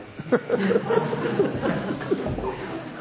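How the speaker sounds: high laughing burst; burst of laughter. Real, not acted. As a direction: laugh at the punchline. Laughs at own punchline.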